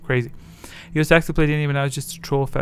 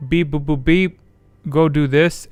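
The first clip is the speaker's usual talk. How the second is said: mock droid; 2 semitones higher, 5 dB louder than usual. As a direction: play the droid chirping orders. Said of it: "and the droid goes".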